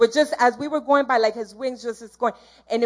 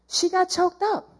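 emphatic repeat; 7 semitones higher than usual. Shown as a demonstration. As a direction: repeat it higher, leaning on choked up.

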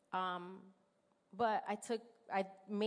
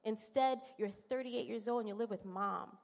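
taunting enemy voice; 3 semitones higher than usual. Retold or imitated. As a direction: needle her like the enemy voice in her head. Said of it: "The enemy just keeps throwing it in your face".

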